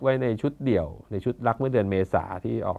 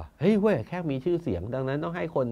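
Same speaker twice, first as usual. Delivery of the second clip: mock official voice, pitched higher, dragging the last words; Thai bureaucrat; 4 semitones higher than usual. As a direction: playfully mimic a smug civil servant. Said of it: "แบบราชการไทยอะครับ". (ล้อเลียนน้ำเสียงข้าราชการไทย)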